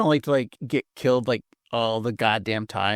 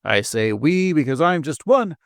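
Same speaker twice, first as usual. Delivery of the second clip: newscaster voice. Acted. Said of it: "it sounds like you're trying to be, like, a newscaster".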